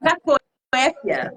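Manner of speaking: "Cacoépia" spelled out very slowly, syllable by syllable; slow careful pronunciation. Shown as a demonstration. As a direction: draw out every syllable: ca-co-É-pia. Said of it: "Fala de novo aí".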